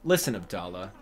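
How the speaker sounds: lightly voiced cranky mole, scolding and sarcastic; a hint of a grumpy mole lecturing; Mister Resetti voice. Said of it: "I do a very good Mister Resetti".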